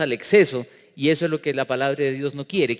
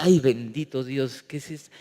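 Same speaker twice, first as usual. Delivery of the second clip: mock dismay; 4 semitones lower than usual. Acted dismayed reaction to pastors.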